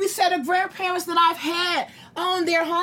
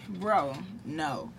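weary sigh; 10 semitones lower, 10 dB quieter than usual. Real, not acted.

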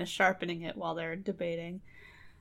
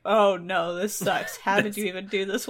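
husband's exasperated cry; 5 dB louder than usual. Retold or imitated. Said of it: "and he's like".

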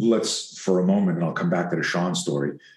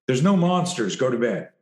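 a brushing-off parent, higher; imitating a dismissive dad; mock dismissive parent; 4 semitones higher than usual. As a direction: wave the kid's fear away.

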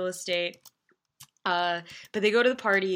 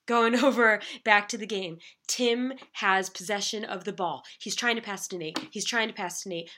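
sports commentator. Acted. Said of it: "use that sports commentator voice".

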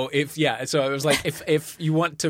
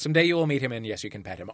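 usual speaking voice

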